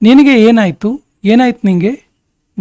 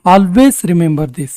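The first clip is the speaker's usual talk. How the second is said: slow, measured English for learners; slow model sentence; 2 semitones lower, much slower than usual. Shown as a demonstration. Teacher models English for Kannada learners, slowly and deliberately. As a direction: say it slowly with spaced words.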